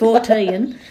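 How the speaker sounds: laughing fourteen as fɔɹtiən; three-syllable fourteen. Shown as a demonstration. Showing her three-syllable fourteen, laughing. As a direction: fourteen drawn into three beats. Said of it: "It's got three syllables".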